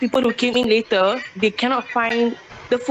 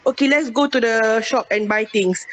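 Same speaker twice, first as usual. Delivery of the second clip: Singlish example, higher and quicker; 3 semitones higher than usual. Shown as a demonstration. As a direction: demo casual Singlish, higher pitched. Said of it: "I give an example".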